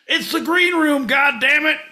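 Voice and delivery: high, loud yell of arrival; loud celebratory bellow; triumphant shout. Real, not acted. Triumphant shout at show start.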